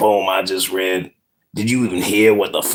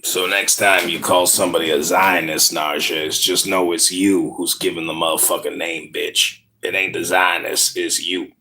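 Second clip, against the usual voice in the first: put-on street poet accent; 3 semitones lower than usual. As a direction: lay it down like a slam poet. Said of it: "Can't talk like you. How do you learn the accent?".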